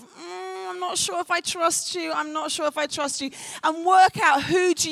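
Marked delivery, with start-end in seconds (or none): 0.0-3.3 wary, hesitant sizing-up; slit-eyed suspicion. Acted. Speaker models sizing up the person beside you, suspicious. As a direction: eye them with mock distrust. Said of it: "give them your slit-eyed kind of".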